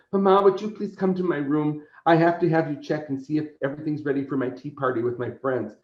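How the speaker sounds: a hint of a girl asking Mama; little girl voice. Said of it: "she goes".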